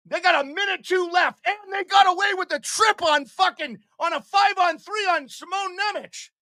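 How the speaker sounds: heated rant. Real, not acted. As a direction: rant up high in outrage. Streamer ranting about a missed trip.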